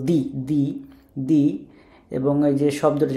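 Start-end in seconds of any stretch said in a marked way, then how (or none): 0.1-1.4 "দি" with a dental d; tongue on the teeth for "দি", like Bengali দ; soft dental D. Shown as a demonstration. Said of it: "ওরা উচ্চারণ করে দর মতো". ("দি", দ-এর মতো দন্ত্য উচ্চারণ)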